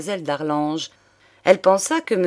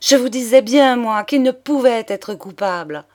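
high, loud burst of triumph; ringing, emphatic exclamation; triumphant; 5 semitones higher, 5 dB louder than usual. A narrator's reading. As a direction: proclaim it, vindicated. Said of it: "avec l'accent du triomphe".

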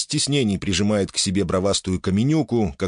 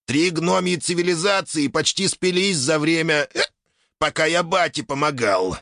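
dim rock creature voice; 8 semitones higher than usual. Acted. Valera the rock creature speaks.

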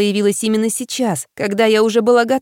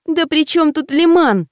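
slow, high irritated retort; annoyed; 8 semitones higher, slower than usual. A narrator's reading. Girl defends herself to friend, high irritated retort. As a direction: snap back, drawn out and pitched up. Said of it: "сердилась я".

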